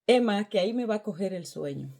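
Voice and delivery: mock excuse. Her lazy reply to God.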